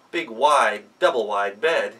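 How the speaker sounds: ordinary delivery, nothing marked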